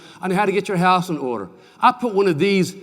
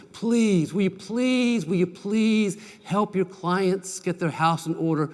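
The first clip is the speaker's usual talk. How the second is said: earnest plea; slower than usual. Real, not acted. Speaker pleads with the audience.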